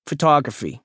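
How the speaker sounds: "Photography" announced as something of note; "Photography" set apart and stressed self-importantly; emphasized last word. A narrator's reading. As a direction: divulge "Photography" with weighty emphasis. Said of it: "He emphasizes this last word".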